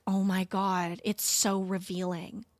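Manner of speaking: mock prim godmother. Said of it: "my godmother was like".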